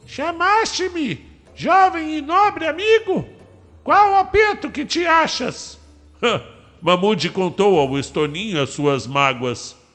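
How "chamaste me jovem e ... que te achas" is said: bird character voice, much higher pitch. Narrating a story, the starling arrives leading the birds and answers Mamude: Estoninho's voice. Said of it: "capitaneados pelo Estoninho".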